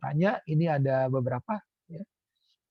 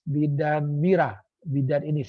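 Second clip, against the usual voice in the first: self-introduction demo; 3 dB louder, slower than usual. Shown as a demonstration.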